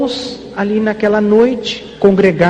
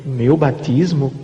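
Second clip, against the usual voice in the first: incredulous echo; 7 semitones lower, much slower than usual. Retold or imitated. Doubting the prophecy.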